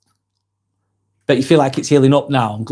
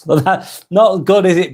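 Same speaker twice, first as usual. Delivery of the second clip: slow, laughing through the words; can't hold back a chuckle; amused at a cheeky prank; 5 semitones higher, slower than usual. Real, not acted. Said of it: "sorry, I'm laughing a little bit".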